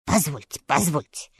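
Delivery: a hint of a puzzled scarecrow; mild scarecrow voice. A narrator's reading. Scarecrow interrupts.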